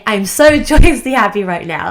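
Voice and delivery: giddy with a laugh breaking in on so; getting excited. Shown as a demonstration. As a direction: let the joy bubble over into a laugh. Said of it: "see how excited I'm getting by saying".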